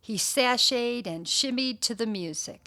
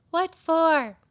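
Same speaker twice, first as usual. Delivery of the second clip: questioning dog; 7 semitones higher, 5 dB louder than usual. Acted. Alice the dog answers Stanley.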